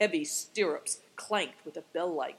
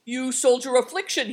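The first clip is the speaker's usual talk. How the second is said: loud, high exclamation; raised, emphatic call; exclaiming cry; 7 semitones higher, 7 dB louder than usual. A narrator's reading. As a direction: cry out in sudden recognition. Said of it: "he cried".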